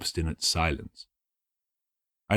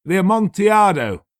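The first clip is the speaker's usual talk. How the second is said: raised, louder cold echo; Montresor's cold echo; 11 semitones higher, 7 dB louder than usual. A narrator's reading. Montresor to Fortunato, a hint of cold mockery. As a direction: echo his words back. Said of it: "I said".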